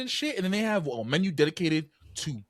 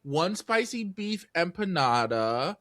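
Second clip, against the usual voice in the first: mock clueless customer; slower than usual. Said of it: "She's like".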